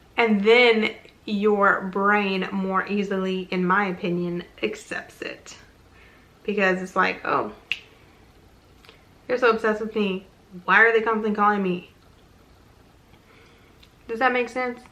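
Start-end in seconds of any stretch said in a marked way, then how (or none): 7.3-11.9 mock irritated, fed-up, exasperated, annoyed tone. Reacting to them constantly calling, annoyed and exasperated. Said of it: "when you say it as if like you're like annoyed".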